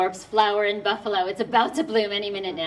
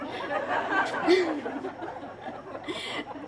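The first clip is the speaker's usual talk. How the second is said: soft breathy laugh; 5 semitones higher, 6 dB quieter than usual. Real, not acted. Audience laughs at poem.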